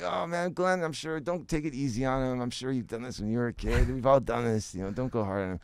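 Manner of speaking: high, laughing pleading; amused reassurance. Retold or imitated. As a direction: tease the boss gently.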